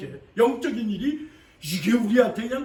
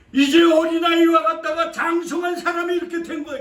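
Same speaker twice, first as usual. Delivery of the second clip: raised, louder sermon cry; preaching at full force; 8 semitones higher, 8 dB louder than usual. Real, not acted. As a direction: drive it home to the church. Preacher proclaims scripture.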